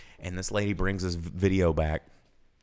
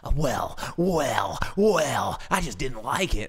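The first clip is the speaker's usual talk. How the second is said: flustered customer; 5 semitones higher, slower than usual. Retold or imitated. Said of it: "she's getting really mad".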